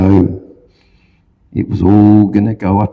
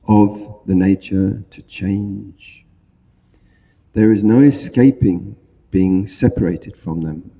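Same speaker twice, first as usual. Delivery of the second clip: solemn recitation; 2 semitones lower than usual. Acted. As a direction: recite it like a sacred text. Recites the five remembrances.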